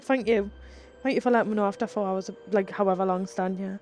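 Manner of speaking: dry, quiet mock gratitude; sarcastic thanks. Stranded for hours, she thanks the rescuer sarcastically. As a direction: thank him with fake politeness, fast and soft. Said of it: "and I was like".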